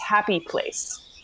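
hushed whisper under one's breath. Acting in character over a pack of anchovies: whispering. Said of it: "I find myself whispering the phrase".

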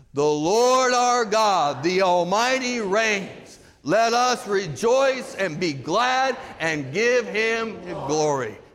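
proclaiming in a loud voice. Showing listeners the words they will one day proclaim: loud proclamation. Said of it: "proclaim with a loud voice these words".

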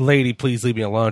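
normal talking voice

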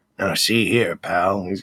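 low, deep, gravelly drawl, very slow. Imitating a tough movie cop with a cigar in his mouth, in a gravelly Lieutenant Bracken voice. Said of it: "He's kind of got that gravelly voice".

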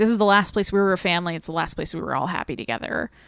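ordinary talk, nothing marked

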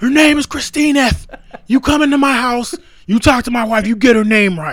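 very high, shrill, loud screaming tirade. Quoting a movie line they screamed at the listener the other day, retelling a scream. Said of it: "I think I just screamed at you".

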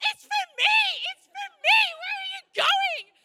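mock shrill, very high-pitched screaming. Telling a story, re-enacting screaming at Jordan to stop the car: retelling screaming. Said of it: "I'm screaming".

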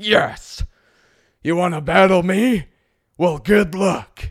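very slow, loud, puffed-up, chest-pounding boastful voice. Imitating people with big egos who want to battle: imitating a chest-pounding egotist. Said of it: "that exact impression".

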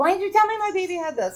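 put-on shrill, very high, furious angry yell. Retelling confronting the doctor about the baby: imitating her own past yell. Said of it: "I yelled at him".

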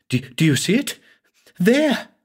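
shrill, very high-pitched crying out. A man points out a house on a hill to the narrator, crying out. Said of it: "he cried".

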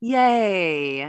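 heavily sarcastic, drawn-out "yay". Retelling a character's reply to pizza plans: imitating a sarcastic yay.

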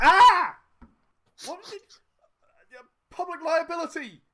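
shrill, booming, very loud, high-pitched, drawn-out yell. Voicing a character pinned under a fallen storefront: yelling at the store owner. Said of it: "he's sort of yelling at the".

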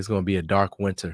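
ordinary delivery

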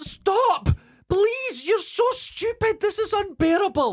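very high-pitched, exasperated, upset outburst. Retelling shouting at a man who shook his head at them: retelling own upset outburst. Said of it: "And I heard myself getting upset".

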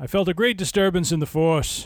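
put-on speaking with a Brooklyn accent. Quoting a famous line to the others, in a Brooklyn accent. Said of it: "I kind of went with a Brooklyn accent on that one".

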